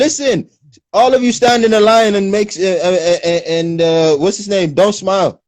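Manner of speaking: high bossy posh Brit; mocking posh English voice. Mocking British arrivals as a bossy posh officer. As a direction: order them about like a stiff English officer. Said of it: "That's how they'll make fun of you".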